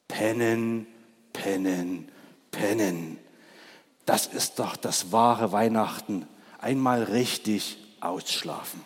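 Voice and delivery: lightly voiced, drowsy repeat; sleepy badger. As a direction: yawn out the word pennen. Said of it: "sagte der Dachs". (Der Dachs schwärmt vom Ausschlafen, schläfrig)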